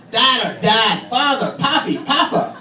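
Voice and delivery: put-on high, excited child calling for dad; a little girl desperate for attention; frantic kid. Six-year-old running to her father, high and frantic.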